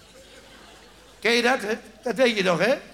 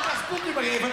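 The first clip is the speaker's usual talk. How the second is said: dentist shouting; 4 semitones higher than usual. Acted. Dentist telling patient to rinse.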